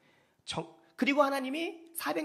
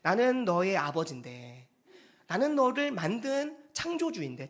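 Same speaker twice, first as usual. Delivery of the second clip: plaintive; 2 semitones lower than usual. Retold or imitated. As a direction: quote God with a touch of aching appeal. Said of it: "말씀이 애절절절해요".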